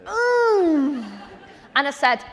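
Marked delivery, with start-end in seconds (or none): 0.1-1.0 high, held "mmm" noise; mock gulping "mm", pitched right up; drawn-out "mm". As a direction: let out a long high hum of hesitation. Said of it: "you know when you just go".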